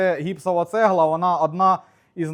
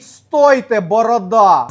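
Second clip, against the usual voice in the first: loud, urgent mimicked cry; retold shout; 4 semitones higher, 9 dB louder, much slower than usual. Worker stops mates lifting the mould, mimicked shout. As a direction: yell to halt them, acting out alarm. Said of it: "а він кричить".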